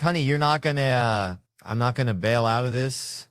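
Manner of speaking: calling out. Retold or imitated. Husband calling out to wife.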